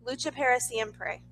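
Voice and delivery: "Lucha para siempre" said carefully in Spanish; saying "Lucha para siempre" with a Spanish accent; Spanish phrase. Shown as a demonstration. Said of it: "I can say it. It's in Spanish".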